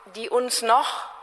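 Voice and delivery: slow lead-up, weight on "noch"; stress on NOCH. Real, not acted. Lecturer qualifying what diagnostics can do, stress on "noch". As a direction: lean on "noch", drawing the phrase out before a pause. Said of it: "Betonung auf noch".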